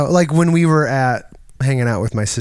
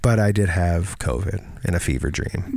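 whispered; 7 semitones lower, 5 dB quieter than usual. Real, not acted. Quiet joke aside.

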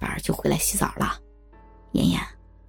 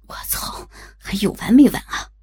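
annoyed; 3 semitones lower than usual. A narrator's reading. Annoyed by ringing phone.

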